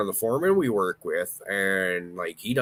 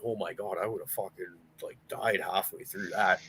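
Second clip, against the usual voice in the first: mock awed hush; 7 dB quieter than usual. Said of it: "I was like".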